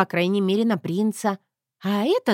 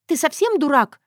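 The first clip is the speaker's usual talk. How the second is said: higher, louder outraged cry; indignant Zoya; 8 semitones higher, 4 dB louder than usual. Acted. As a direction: scold him, stunned and furious. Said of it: "простонала Зоя".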